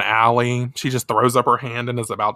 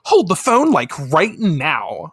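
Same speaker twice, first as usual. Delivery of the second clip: high loud then slow drawled; valley girl interruption; 4 semitones higher, 3 dB louder, slower than usual. Retold or imitated. Gyaru girls interrupting the heroes, sassy drawl. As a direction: cut in like a sassy teen. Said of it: "they hear".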